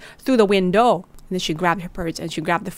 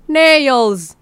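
loud, high disbelieving cry; stunned yell of disbelief; shocked outburst; 5 semitones higher, 9 dB louder than usual. Acted. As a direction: blurt it out in alarm.

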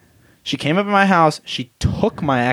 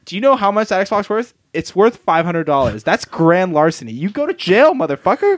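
higher, rising to an angry threat; heated threat; 5 semitones higher than usual. Retold or imitated. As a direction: build to a mock furious threat. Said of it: "I was like".

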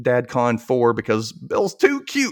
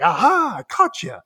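gotcha; 10 semitones higher, 3 dB louder, slower than usual. Retold or imitated. Dad catching son.

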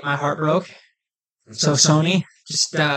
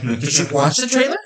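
building from plain to a higher, louder hyped shout; retold hype rant; 5 semitones higher, 5 dB louder than usual. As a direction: ramp up until you're yelling how awesome it is. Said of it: "I'm like".

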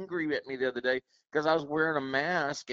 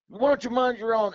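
pitched-up mock snap, louder; retold snap; 9 semitones higher, 5 dB louder than usual. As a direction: snap back like the rude customer. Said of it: "he's like".

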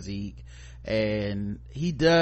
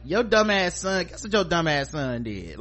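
blunt mock scolding; 5 semitones higher than usual. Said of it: "that's how I would've ran".

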